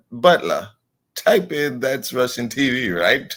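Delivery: mock master to butler. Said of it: "You got to seem like I type".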